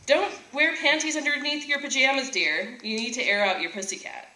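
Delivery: a hint of a mother cautioning her daughter; advising mother. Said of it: "her mother used to tell her".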